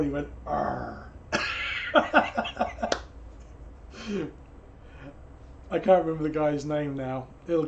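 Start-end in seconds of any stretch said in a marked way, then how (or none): 0.5-1.1 a short growling roar, imitating a comedian; the comedian's little roar; imitated roar. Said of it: "a little roar". 1.2-5.7 real laugh. Real, not acted. Laughs at his own joke.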